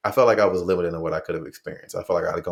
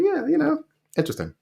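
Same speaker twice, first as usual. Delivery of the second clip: mock high local voice.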